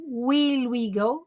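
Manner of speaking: "Will we go?" said very slowly, each word drawn out; slow pronunciation model. Shown as a demonstration. Teacher slowly models "Will we go?" for Brazilian students. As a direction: spell out "Will we go?" slowly for the class. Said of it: "Ó a pronúncia aí".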